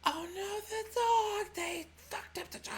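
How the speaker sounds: high, loud cry of dismay; shocked dismay. Pretend. Susanna finding the wrecked mechanical dog, high and shocked. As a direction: gasp at the broken dog.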